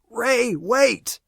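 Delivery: very high, loud cry; scream. Acted. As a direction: scream for him to wait. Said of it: "Aaron screams".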